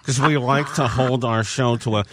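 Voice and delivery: solemn coach's pep speech. Pretend. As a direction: speak like Coach K addressing the team. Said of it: "can you do so in your Coach K voice".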